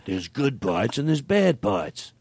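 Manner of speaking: slow, lightly voiced pitchman; slow hammed-up sales pitch; salesman voice. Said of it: "what if you were the salesman".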